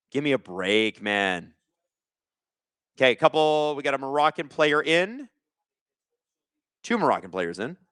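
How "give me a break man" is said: fed up. Real, not acted. Disgusted after the bad call.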